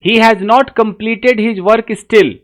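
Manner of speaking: very slow, deliberate reading of the sentence. Shown as a demonstration. Teacher reading the example sentence slowly. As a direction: read it out word by word. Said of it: "अब देखिए".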